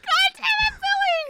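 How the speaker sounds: loud, high shout of frustration; frustrated shout. Real, not acted. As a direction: yell it out in mock despair. Losing to chat again.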